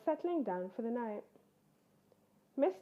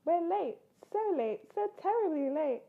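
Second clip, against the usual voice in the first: higher, rushed panicky parents; higher, hurried worried parent bears; flustered hurry; 6 semitones higher than usual. Acted. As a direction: gabble it out as you run for the door.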